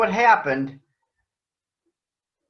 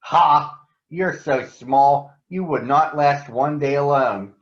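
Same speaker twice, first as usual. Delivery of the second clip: scoffing retort; 4 semitones lower than usual. Acted. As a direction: brush off the boy's boast, slowly. Bagheera scoffs at Mowgli.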